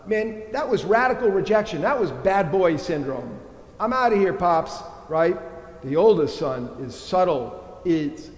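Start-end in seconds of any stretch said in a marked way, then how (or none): 3.8-4.8 rebellious son. Acted. Youngest son rejecting his father.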